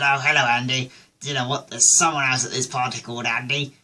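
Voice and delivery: lightly imitated posh English chatter; mock upper-class surprise at a coincidence; a touch of put-on posh; posh accent. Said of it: "I talk posh".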